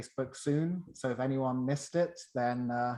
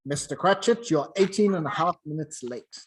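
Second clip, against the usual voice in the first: louder, mock-stern boss voice; 2 semitones higher, 6 dB louder than usual. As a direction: pretend to scold the late clerk. Scrooge feigning sternness to clerk.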